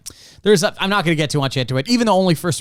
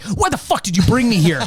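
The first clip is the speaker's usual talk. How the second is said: mock-indignant, a bit higher-pitched; pissed off; 4 semitones higher than usual. Co-host voices show characters turning on each other, mock anger. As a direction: act out an outraged guest lightly. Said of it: "almost immediately pissed off".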